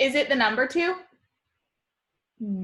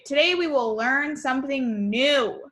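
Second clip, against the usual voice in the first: excited read; 3 semitones higher than usual. Shown as a demonstration. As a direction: read it with an exclamation point. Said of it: "and that is when we are excited".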